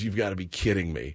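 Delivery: low, soft retold exasperation; dropped, quiet mock dismay; imitated weary disbelief. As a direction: say it under your voice as the let-down wife. Acting wife's reaction to the mess.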